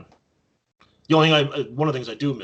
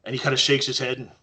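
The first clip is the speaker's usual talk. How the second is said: ordinary talk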